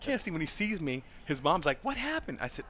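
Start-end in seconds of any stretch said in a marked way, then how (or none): 0.0-0.3 fading holler. Retold or imitated. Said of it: "And he's just hollering". 1.8-2.4 high, worried mom's question; lightly voiced mom, pitched up. His mom asks the coach.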